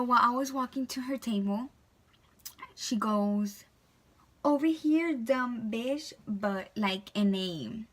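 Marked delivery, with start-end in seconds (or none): 4.4-6.1 mock the waitress as you call her over; rude, sarcastic. Customer sarcastically calling the waitress over, sneering. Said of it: "rude, sarcastic way".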